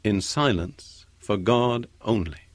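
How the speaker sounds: very slow repeat of "My soul waits in silence for God only". Shown as a demonstration. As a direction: say the verse again, lingering. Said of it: "Tremendous words".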